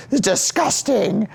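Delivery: high, slow, drawn-out revulsion; disgusted mom. Retold or imitated. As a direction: stretch it out as an appalled mother.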